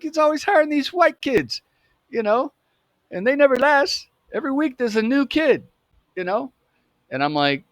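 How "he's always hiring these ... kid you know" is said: high-pitched cool-cat voice; cool dude. Retold or imitated. Cool dude greeting the new kid behind the counter, imitated high. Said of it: "he's a pretty cool, cool dude".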